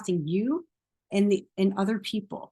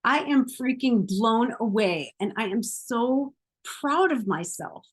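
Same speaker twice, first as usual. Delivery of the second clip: proud gush; 2 semitones higher than usual. Shown as a demonstration. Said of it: "mine says".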